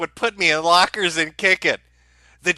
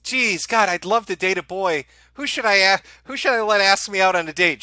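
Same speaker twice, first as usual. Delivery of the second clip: mock girly voice. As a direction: play a dreamy teen girl, hammed-up. Plays Jade choosing a boyfriend.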